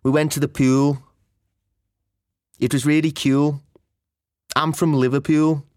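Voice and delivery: Scouse oo vowel in pool, cool, Liverpool; stretched Scouse oo sound in "pool"; Scouse accent. Shown as a demonstration. A Liverpool speaker demonstrating the oo vowel in Scouse. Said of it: "For example".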